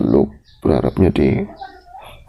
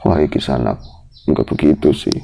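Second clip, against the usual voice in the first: calm; 3 semitones lower than usual. Retold or imitated. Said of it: "Saya dengan tenang menguasai emosi saya".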